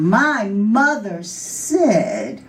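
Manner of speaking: slow, drawn-out proclamation; proclaiming. Acted. Girl runs up to the big girls in the schoolyard, proclaiming. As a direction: announce it slowly, stretching every word. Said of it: "ran up to the big girls ... schoolyard and proclaimed".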